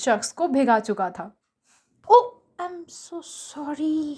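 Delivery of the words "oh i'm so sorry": very slow, halting apology; broken, stammered sorry. Acted. Mugdha spilling juice on the stranger, flustered slow sorry. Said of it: "टूटा फूटा sorry निकला".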